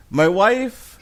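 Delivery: high, slow, drawn-out Cosby voice; mock Bill Cosby telling the story; Cosby storytelling voice. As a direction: stretch it out like the comedian telling the bit. Cosby bit retold.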